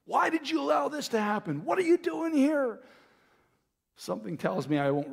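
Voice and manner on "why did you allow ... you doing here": high-pitched mock protest to God; demanding answers. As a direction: plead upward in a much higher voice. Acted questioning of God.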